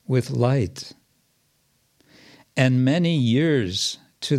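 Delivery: measured poem reading with a lilt; verse recitation. Acted. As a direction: recite the verse in measured phrases, pausing between them. Recites translated verse aloud.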